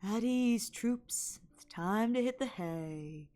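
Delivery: slow, seductive delivery; sexy voice. Shown as a demonstration. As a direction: make it sultry and slow. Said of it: "There is a sexy one".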